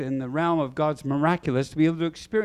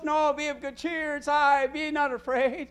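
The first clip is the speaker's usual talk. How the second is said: reassuring Jesus; 10 semitones higher than usual. Acted. Jesus calming disciples.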